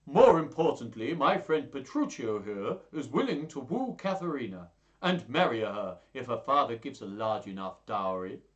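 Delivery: loud, emphatic character voice; announcing suitor. Acted. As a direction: put on a voice to make a proclamation.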